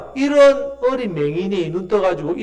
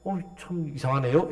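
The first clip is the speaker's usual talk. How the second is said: softer, understated mock wonder; mocking puzzlement; 5 dB quieter than usual. Healed blind man to the leaders, mildly mocking. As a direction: muse aloud with a touch of derision. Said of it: "이렇게 지금 계속 조롱하는 소리".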